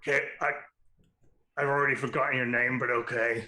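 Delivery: lightly voiced cigar-chomping pirate; gravelly pirate voice. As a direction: talk round a cigar like a pirate. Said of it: "I'm glad I have a voice for her now".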